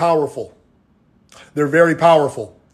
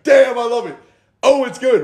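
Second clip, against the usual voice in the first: relishing; 6 semitones higher than usual. Acted. Coach playing himself enjoying cake, exaggerated relish. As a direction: act out savoring it, pitched up high.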